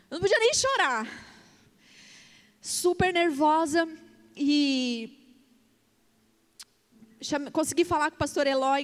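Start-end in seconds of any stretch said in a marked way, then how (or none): none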